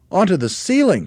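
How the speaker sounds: very high, loud disbelief; small monkey crying out. A narrator's reading. Small monkey to dad, astonished cry. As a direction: squeal the question incredulously. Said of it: "cried one of the small monkeys".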